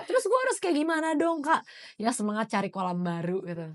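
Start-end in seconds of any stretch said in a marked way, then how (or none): 0.1-1.6 higher-pitched pleading question; mock helpless plea. Acting out a follower asking for advice, mock helpless. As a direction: imitate a follower begging for advice.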